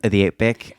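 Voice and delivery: lightly put-on Aussie twang; mock Australian vowels; Australian accent. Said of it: "you guys have great accents".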